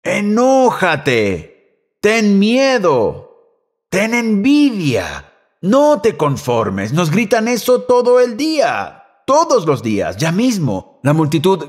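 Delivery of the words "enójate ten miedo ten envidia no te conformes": mock crowd voice. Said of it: "La multitud nos está gritando".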